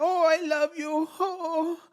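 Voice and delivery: high, breathy-free mock Latina gush in a put-on Spanish accent; lightly hammed Hispanic accent. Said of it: "she did the Hispanic act".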